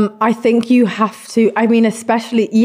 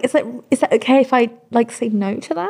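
small, higher, nervous asking voice; timid people pleaser; 5 semitones higher than usual. Retold or imitated. Singer mimics her timid old self asking her team. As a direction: meekly ask permission, a little higher. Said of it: "I was like".

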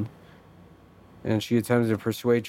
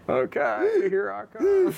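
goofy clown voice; slower than usual. Pretend. Clown bike ride.

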